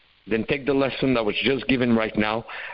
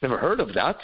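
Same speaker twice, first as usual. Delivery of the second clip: mock surprise. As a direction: act a little amazed. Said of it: "And I go".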